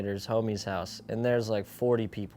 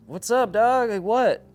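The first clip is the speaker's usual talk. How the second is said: dazed confusion; 11 semitones higher, 8 dB louder than usual. Retold or imitated. Waking up confused after seizure.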